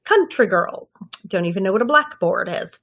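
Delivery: lightly acted deadpan snobbery. Child auditioning as the snobbish girl, very deadpan. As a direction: say it dead seriously, without a wink. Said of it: "like, very deadpan of".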